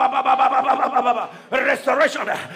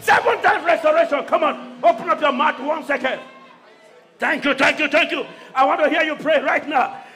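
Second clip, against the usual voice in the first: leading declaration; 4 semitones higher than usual. Acted. Preacher leading the congregation in declaration, urging. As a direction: call the people to pray.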